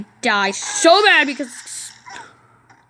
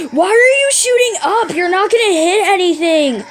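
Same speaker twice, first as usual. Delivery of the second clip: exasperated scolding; 5 semitones higher, 3 dB louder than usual. Real, not acted. Scolding the game's enemies.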